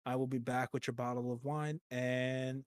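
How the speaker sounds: soft, overly courteous waiter; polite server voice. Pretend. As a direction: welcome the guests like a fawning waiter. Waiter welcomes guests.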